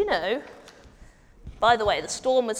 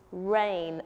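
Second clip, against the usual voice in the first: normal talking voice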